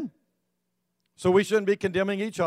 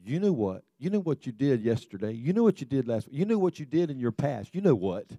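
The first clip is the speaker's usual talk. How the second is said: lightly voiced devil, lower and soft; accusing devil; 3 semitones lower, 4 dB quieter than usual. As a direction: quietly needle them with their past. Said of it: "the devil says".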